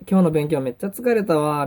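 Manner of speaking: offhand Kansai-dialect remark; casual everyday talk. Shown as a demonstration. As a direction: say it like chatting to yourself. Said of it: "もっとこうカジュアルに、". (日常会話のノリでカジュアルに)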